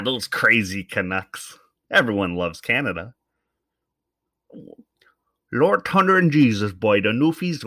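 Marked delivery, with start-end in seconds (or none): 5.5-7.6 loud, much higher mock Newfoundland accent; hammed-up East Coast Newfoundland exclamation; Newfie accent. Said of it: "with their East Coast accent".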